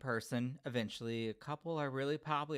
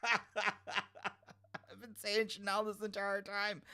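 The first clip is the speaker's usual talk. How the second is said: slow words squeezed through high laughter; embarrassed laughing; 8 semitones higher, much slower than usual. Real, not acted. Host admitting a name mistake, laughing in embarrassment. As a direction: laugh helplessly through the confession.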